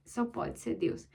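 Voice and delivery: slow awed whisper of Só pode ser Deus; whispered in wonder. Real, not acted. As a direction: breathe it softly in reverent awe.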